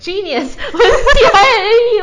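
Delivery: high, loud burst through laughter; laughing. Real, not acted. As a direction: crack up as you say it. Jokes about the types' genius.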